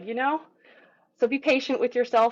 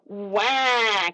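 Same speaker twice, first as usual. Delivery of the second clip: tight stuck cry. Shown as a demonstration. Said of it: "you're not".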